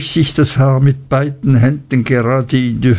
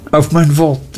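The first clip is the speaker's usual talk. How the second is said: a touch higher, delighted exclamation; 4 semitones higher than usual. Acted. Traddles answers his friend, lightly higher and delighted. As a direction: exclaim with glee. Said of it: "entgegnete Traddles entzückt".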